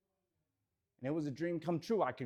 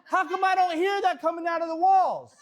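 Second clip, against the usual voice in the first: laughing; 10 semitones higher, 10 dB louder than usual. Real, not acted. Laughing, incredulous about the office.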